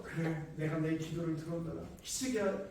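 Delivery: the hoped-for kind answer; gentle God imagined. Retold or imitated. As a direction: answer like a consoling father. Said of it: "하박국 선지자는 하나님께서".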